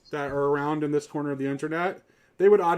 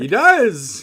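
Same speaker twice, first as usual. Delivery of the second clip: emphatic; 4 semitones higher, 10 dB louder than usual. Real, not acted. Emphatic agreement with co-host.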